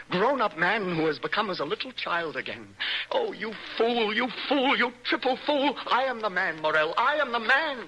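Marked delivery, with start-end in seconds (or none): 3.1-7.9 exalted outburst. Acted.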